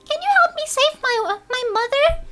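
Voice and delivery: put-on high, sweet little girl voice; squeaky, pleading little girl; Cream. Shown as a demonstration. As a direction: plead politely like a small rabbit girl. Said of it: "voice Cream".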